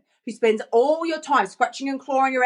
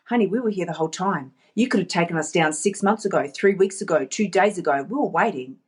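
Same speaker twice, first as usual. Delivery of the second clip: lower, lightly acted reply; a hint of patient reproach, pitched down; dreams answering back; 4 semitones lower than usual. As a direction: answer as the long-waiting dreams. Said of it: "what they're gonna say to you".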